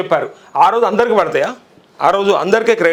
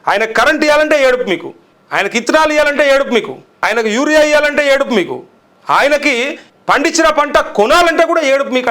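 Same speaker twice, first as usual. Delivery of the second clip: angry rant; 4 semitones higher than usual. Real, not acted. Vlogger railing at the government over farmers, heated rant. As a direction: lash out at the rulers.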